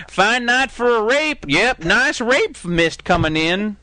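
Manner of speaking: put-on slow, drawling old-timer voice; lightly voiced toothless old man, slow; a hint of a creepy old local, slow; old whittler.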